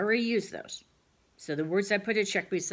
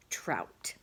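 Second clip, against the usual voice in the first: whispered word; 7 semitones lower, 4 dB quieter than usual. Shown as a demonstration. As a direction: whisper the word trout softly. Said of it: "teacher whispers the word".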